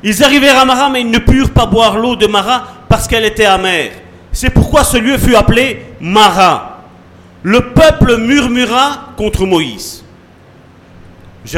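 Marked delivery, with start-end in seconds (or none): 0.0-10.0 raised, declaimed Bible reading; emphatic preacher reading scripture. Acted. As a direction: read the verse out to a congregation. Reads the Bible passage aloud.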